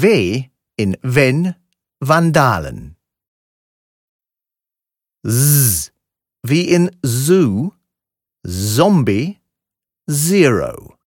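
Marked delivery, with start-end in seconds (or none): 6.4-11.0 "Zoo, Zombie, Zero." with a humming voiced z; voiced buzzing S. Shown as a demonstration. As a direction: buzz the z like bees in "Zoo". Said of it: "Ist ein weiches, stimmhaftes S".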